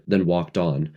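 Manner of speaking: ordinary delivery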